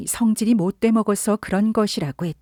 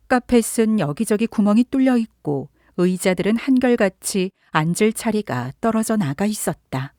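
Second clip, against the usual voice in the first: ordinary delivery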